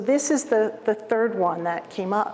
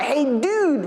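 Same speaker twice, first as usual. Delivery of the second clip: Hey dude voice; 4 semitones higher than usual. Shown as a demonstration. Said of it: "So this is my ... voice".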